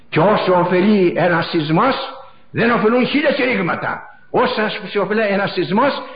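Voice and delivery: preaching at full force. Acted. Preacher lamenting the ruined town of Kalamata to his flock, preaching at full force. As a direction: hammer each πού like a fiery preacher. Impassioned litany after earthquake.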